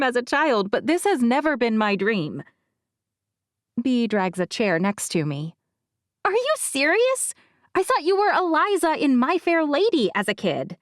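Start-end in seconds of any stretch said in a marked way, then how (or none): 6.2-10.8 Bea. A narrator's reading. Bea, friend, voiced in story.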